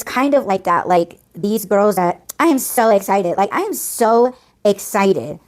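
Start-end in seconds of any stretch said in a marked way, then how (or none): 2.4-5.4 imitated gushing with drawn-out emphasis; mock gushing excitement. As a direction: mimic an over-excited girl, stretching the second SO. Mimicking the girls' gushing excitement.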